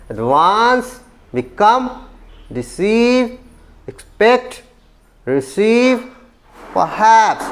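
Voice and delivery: Advance, become, deceive, expect, receive, perhaps, each stressed on the second syllable; word list: adVANCE, beCOME, deCEIVE, exPECT, reCEIVE, perHAPS. Shown as a demonstration. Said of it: "stays on the second syllable". (Advance, become, deceive, expect, receive, perhaps: हर शब्द के दूसरे अक्षर पर ज़ोर)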